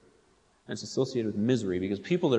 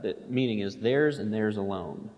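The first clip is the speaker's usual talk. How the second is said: theirs pressed both times, alone at the end; stress on theirs. Shown as a demonstration. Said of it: "is emphatic".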